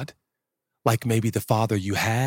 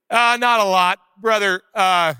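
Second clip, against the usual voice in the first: awkward shopper; 7 semitones higher, 5 dB louder than usual. Acted. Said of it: "interaction goes a little bit something like".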